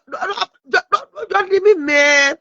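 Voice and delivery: hammed-up crying plea, half sobbing; a put-on tearful plea not to be left; mock wailing. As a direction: pretend to sob as they leave. Mock wailing over a departing guest.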